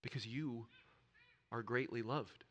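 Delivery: tender. Real, not acted. Repeats the assurance slowly, tenderly.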